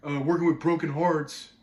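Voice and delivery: lightly voiced fireman on TV; a hint of a plain-spoken fireman; imitated fireman. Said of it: "He just goes".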